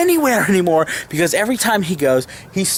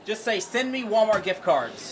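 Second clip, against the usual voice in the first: quiet coaxing; 4 semitones higher, 7 dB quieter than usual. Real, not acted. Son coaxing grandpa.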